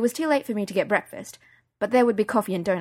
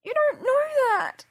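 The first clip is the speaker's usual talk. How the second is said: much higher, slow, near a sob; tearful protest; slower than usual. Acted. Crying daughter contradicting her mum, high and slow. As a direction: plead it slowly.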